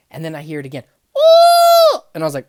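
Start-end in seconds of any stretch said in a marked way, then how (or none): 1.2-2.0 very high, loud whooping scream; imitating a strange scream in the dark; imitated piercing scream. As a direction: let out a wild piercing whoop. Scream heard again.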